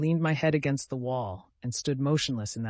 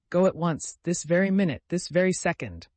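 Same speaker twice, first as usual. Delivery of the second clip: high, insistent, raised command; roaring; 5 semitones higher, 4 dB louder than usual. A narrator's reading. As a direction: drive him out urgently. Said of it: "I roared".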